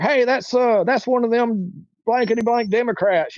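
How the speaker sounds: mock a hostile guy pointing someone out; a light imitation of a jeering man in the crowd; hostile heckler. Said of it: "he was like".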